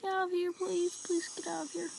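trembling whisper. Real, not acted. Pleading with monster.

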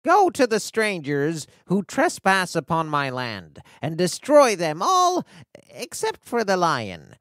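lightly voiced commanding witch; wicked witch. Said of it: "said the wicked witch".

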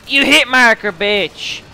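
loud, high burst of annoyance; angry shout. Real, not acted. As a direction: yell it at the opponent. Angry at a hit marker.

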